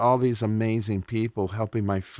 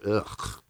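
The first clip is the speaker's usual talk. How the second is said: disgusted ugh; 6 dB quieter than usual. Retold or imitated. Disgust at condoms in mouth.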